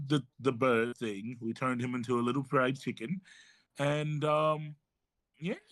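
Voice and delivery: a fussy British healer calming a friend; lightly put-on British accent. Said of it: "I don't know how to do my accent today".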